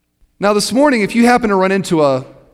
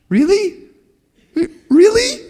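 Really? Really? squealed much higher, rising; excited disbelief; slower than usual. Retold or imitated. Congregants hearing of a sure return, excited high squeal. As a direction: imitate eager people hearing of a sure return.

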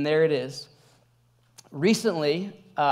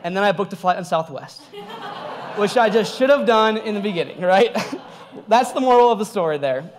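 laughing; 4 dB louder than usual. Real, not acted. Laughing at own mistake.

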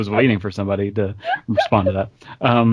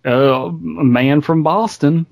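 hammed-up, raised-voice fake Boston accent; mock Boston accent; 4 semitones higher, slower than usual. Friend jokingly showing a Boston man, mock Boston accent. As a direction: do a badly faked, higher-pitched Boston accent. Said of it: "I probably should do a Boston accent".

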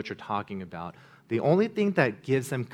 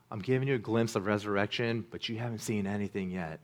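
gentle reassurance; 2 semitones lower, 5 dB quieter than usual. Acted. Jesus comforts the disciples with a soft hushed promise. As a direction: lean in and reassure softly.

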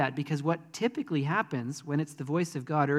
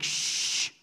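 imitated crowd's hissed hush; whispered shushing; slower than usual. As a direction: shush him, then whisper the dismissal. Crowd hushing the blind man.

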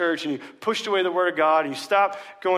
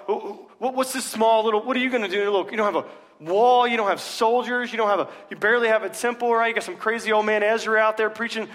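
higher, louder mocking sneer at Nehemiah; mocking enemies; 5 semitones higher, 3 dB louder than usual. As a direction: taunt him like a scornful enemy. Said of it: "they're just mocking him".

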